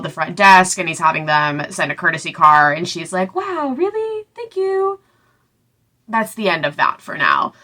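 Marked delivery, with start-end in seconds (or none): 3.3-5.0 sarcastic. Retold or imitated. Mocking gratitude, quoting Celine.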